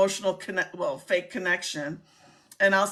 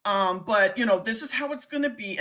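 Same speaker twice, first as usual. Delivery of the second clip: New York accent. Shown as a demonstration. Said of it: "New York accent".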